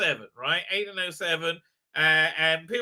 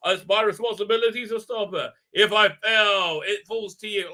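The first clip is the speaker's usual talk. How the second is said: raised, hammed-up East London voice; mock East London; 3 semitones higher, 5 dB louder than usual. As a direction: imitate an East London father in alarm. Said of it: "sound like they're from, like, East".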